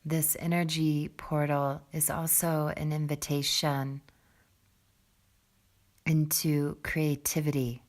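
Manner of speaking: calm, soft meditation voice with long pauses; guided meditation. Real, not acted. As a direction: settle them gently into the breath, low and unhurried. Leads a seated breathing meditation.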